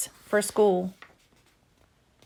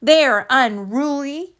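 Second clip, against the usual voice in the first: slow, theatrical mother's complaint; lightly voiced dramatic mama; slower than usual. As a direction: ham up the disgust. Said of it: "she added dramatically".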